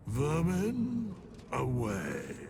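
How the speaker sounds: contemptuous command. Acted. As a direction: sweep them aside like insects. God dismissing the dead three.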